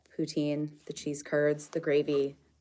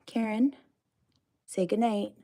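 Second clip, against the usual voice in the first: high, sing-song call to a pet; 5 semitones higher than usual. Real, not acted. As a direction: call her name gently up high. Calling a pet to the door.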